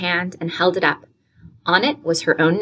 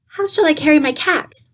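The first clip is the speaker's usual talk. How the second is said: put-on higher, worried child's question; anxious; 10 semitones higher than usual. A narrator's reading. Emily anxiously asks Aunt Elizabeth about her cats. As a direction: ask with rising worry. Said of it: "asked Emily anxiously".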